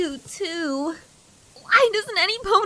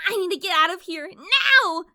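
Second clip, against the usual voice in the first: panicked shout; 2 semitones lower than usual. Acted. Filly fleeing in panic.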